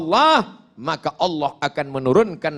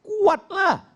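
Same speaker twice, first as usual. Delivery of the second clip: said loudly; 13 semitones higher than usual. Shown as a demonstration. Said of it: "Dibaca kuat apa pelan".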